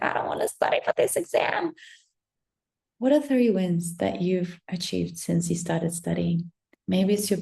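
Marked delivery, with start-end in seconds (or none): 0.0-1.7 reluctant student. Retold or imitated. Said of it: "You're like".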